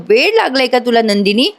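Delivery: understated exasperated question; lightly acted annoyance; mildly irritated. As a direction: scold with a touch of disbelief. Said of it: "जीवा चिडून म्हणतो".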